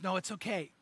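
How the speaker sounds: soft, low fatherly comfort; reassuring. Retold or imitated. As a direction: gently voice a resigned dad. Dying dad reassures his son.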